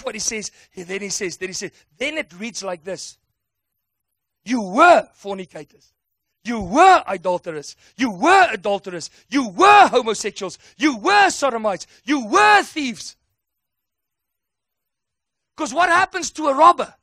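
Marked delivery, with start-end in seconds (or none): 4.4-7.8 louder, each "were" struck hard; forceful preaching. Acted. Preacher reading the list forcefully. 8.0-9.1 "You were adulterers" shouted, "were" punched. Acted. Repeated louder as a shout. 9.3-13.2 louder, slowing on "thieves"; forceful preaching. Acted. Preacher's list.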